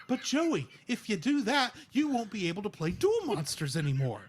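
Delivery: lightly voiced earnest anime friend; a hint of cartoon dub protest; mock Yu-Gi-Oh! hero. Anime hero warning Joey off his plan, light dub impression. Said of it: "I went to Yu-Gi-Oh!".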